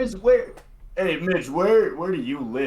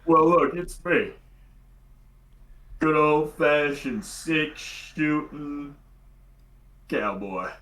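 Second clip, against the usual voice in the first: deep cowboy; slower than usual. Acted. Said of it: "the deepest cowboy you can muster".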